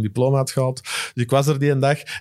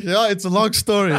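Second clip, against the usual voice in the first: chuckling, a bit higher; laughing reply; 5 semitones higher than usual. Retold or imitated. Fan answering envious crowd, laughing smugly.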